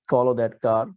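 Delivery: a model line with the weight on "Follow"; stress on follow. Shown as a demonstration. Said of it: "you have to mimic this".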